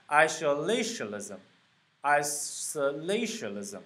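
"isolationism" slowly, lighter stress on "i", heaviest on "la"; primary and secondary stress. Shown as a demonstration. Teacher showing stress marks, "isolationism" slow with main stress on "la". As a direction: sound out "isolationism", leaning on "la". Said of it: "后面的要读得更重一些".

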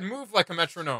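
lightly imitating a robotic DJ voice; a hint of a distorted game announcer; robotic voice line. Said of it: "she said".

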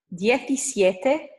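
slow, drawn-out "Diecisiete", rising at the end; modelled for repetition. Shown as a demonstration. Teacher giving learners a number to repeat, slow and deliberate. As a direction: stretch out "Diecisiete" with a lifted ending. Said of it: "after me".

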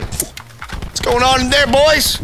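high, slow, drawn-out imitation; mock creeper voice. Gamer voicing the peeping player, mock creeper. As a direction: imitate a peeper calling in, stretched out. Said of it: "He's like".

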